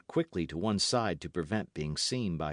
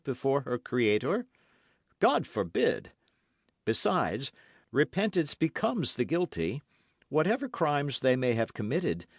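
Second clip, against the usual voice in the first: serious but milder; 6 semitones higher, 4 dB louder than usual. Acted. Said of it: "in the same serious voice, but with a milder tone".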